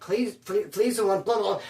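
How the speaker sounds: tripping over the first word; retold stuttering. Accused messenger defending himself, stumbling stutter. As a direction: restart the name, then trail into blah. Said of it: "I was stuttering just like that, too".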